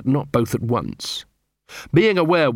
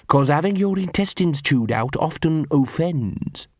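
slow, higher-pitched thug dog voice; threatening henchdog; 4 semitones higher than usual. Acted. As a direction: spell out the threat slowly.

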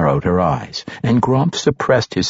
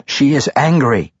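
interrupting; 6 semitones higher than usual. A narrator's reading. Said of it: "Quenthel interrupted".

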